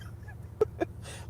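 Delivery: sputtering puff like a failing AC; imitated AC noise. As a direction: mimic an air conditioner giving out. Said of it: "The A C is like".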